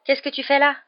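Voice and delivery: high, loud startled questions; astonished. A narrator's reading. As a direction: stumble over the question in disbelief. Startled Hermione finds Harry there.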